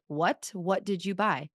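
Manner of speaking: blunt, flat what did you buy; incredulous husband. Shown as a demonstration. Husband reacting to a thousand-dollar Costco bill, incredulous. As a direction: ask it like a stunned, unamused husband. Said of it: "Do you see the difference?".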